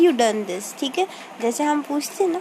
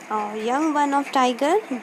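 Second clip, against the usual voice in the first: slow dictation; much slower than usual. Shown as a demonstration. Teacher dictating a question.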